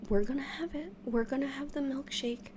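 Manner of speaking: breathless little pep talk; hushed excitement. Retold or imitated. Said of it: "I'm like".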